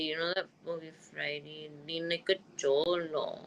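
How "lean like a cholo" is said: cholo drawl. Acted. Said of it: "from the movie Friday".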